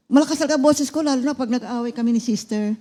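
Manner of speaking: husband joking that his voice is loud from quarrels; joking loud boast. Retold or imitated. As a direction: boom it out as a joke. Patient joking about loud voice.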